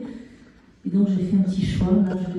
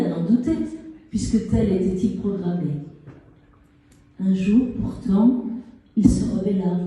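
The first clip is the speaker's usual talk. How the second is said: measured fable reading with pauses between phrases; poem recitation; slower than usual. Acted. Poet reads a fable to an audience, measured recitation. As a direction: recite a fable in verse, lifting the key lines.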